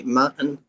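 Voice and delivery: Martin with the R dropped; imitating co-host's accent. Teasing co-host about his accent, Martin with no R. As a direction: say "Martin" without an R. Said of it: "Is that your accent when you say Martin".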